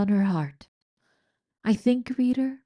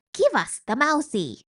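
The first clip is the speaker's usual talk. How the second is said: mock shout; 8 semitones higher than usual. A narrator's reading. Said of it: "shouted one of the rats".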